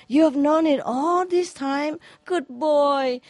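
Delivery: postman voice. Acted. Postman's joyful reply in joke.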